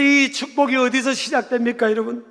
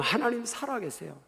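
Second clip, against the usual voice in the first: hushed assurance; 12 dB quieter than usual. Real, not acted. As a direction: say it quietly, as a settled truth. (낮고 조용하게 확신하듯)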